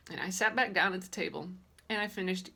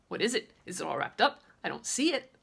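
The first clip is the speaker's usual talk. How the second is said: very excited. Acted. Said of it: "I said, very excited".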